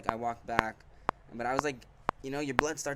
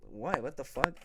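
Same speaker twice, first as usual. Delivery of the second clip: retold higher-pitched, incredulous comeback; mildly outraged disbelief; baffled indignation; 3 semitones higher than usual. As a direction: replay being taken aback and annoyed.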